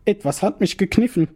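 high, alarmed complaint; panicked. Acted. Psychiatrist after the pinch, panicked. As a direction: sound rattled and shaken.

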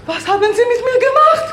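high, loud, laughing demand; shrill accusation. Acted. Possessed woman shrilly accuses the man beside her. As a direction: fling the accusation at him.

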